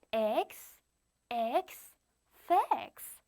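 X as "iks" twice, then "fix" with F added in front; phonics blending. Shown as a demonstration. Teacher showing children how fix is pronounced, phonics blending. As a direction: sound out "X" in separate beats, land on "fix". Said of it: "이렇게 발음이 되는 거예요".

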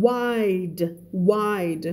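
"wide" with its end consonant released; final D sounded. Shown as a demonstration. Teacher asking learners to sound word endings, careful final D in "wide". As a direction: finish "wide" clearly on the D. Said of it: "ออกเสียงท้ายหน่อย".

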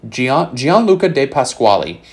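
confident Spanish accent on "Gianluca De Pasquale", falling at the end. Shown as a demonstration. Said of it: "try to use my Spanish accent there".

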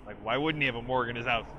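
mildly dismissive, as if it's obvious; deadpan, tossed-off retort; very dry. Retold or imitated. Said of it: "very dry and sort of like".

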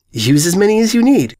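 sweetly polite pink mare. Acted. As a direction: kindly offer them the heap. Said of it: "she politely said".

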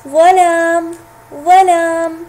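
clear model word. Shown as a demonstration. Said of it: "سوف يكتب بالشكل الأول".

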